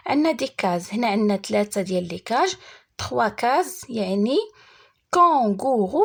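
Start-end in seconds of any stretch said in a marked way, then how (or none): 5.1-6.0 "كونغورو" counted out as kon, gou, rou; three syllables. Shown as a demonstration. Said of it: "فيها تخوا سيلاب".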